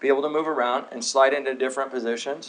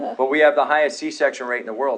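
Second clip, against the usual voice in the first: usual speaking voice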